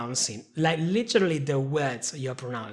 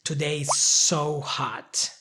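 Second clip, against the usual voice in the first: Today is so hot, said slowly; slow example; 3 semitones lower, slower than usual. Shown as a demonstration. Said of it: "the first word we have is the word so".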